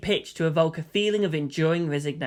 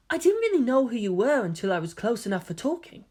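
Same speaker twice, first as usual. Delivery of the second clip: put-on softer, higher gentle boy voice; gentle young man; 3 semitones higher, 4 dB quieter than usual. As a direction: explain softly and kindly. Voices Kaoru explaining.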